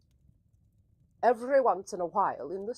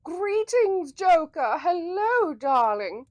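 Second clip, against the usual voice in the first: breathy vintage purr; 8 semitones higher, 8 dB louder, slower than usual. Acted. Host greeting chat in put-on voice.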